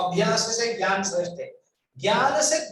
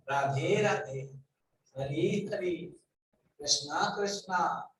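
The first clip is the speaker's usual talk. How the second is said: ashram parrot; 3 semitones lower, 5 dB quieter, slower than usual. Retold or imitated. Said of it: "जो आश्रम है, वो बोल-, वो बोला".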